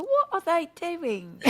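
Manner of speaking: high, slow mock-British whine; British accent. Shown as a demonstration. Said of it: "start talking in a British accent".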